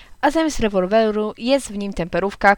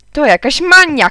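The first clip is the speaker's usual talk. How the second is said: exasperated father shouting, higher; 7 semitones higher, 8 dB louder than usual. A narrator's reading. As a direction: shout it out, fed up. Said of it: "krzyknął tata". (krzyk zirytowanego ojca)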